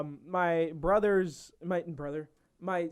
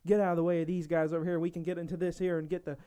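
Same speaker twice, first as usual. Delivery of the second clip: put-on thick southern accent; 3 dB quieter, faster than usual. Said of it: "too thick of an accent".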